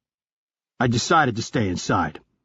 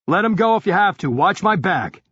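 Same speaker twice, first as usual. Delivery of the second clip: brisk raised character voice; 7 semitones higher than usual. Acted. Pike gives orders.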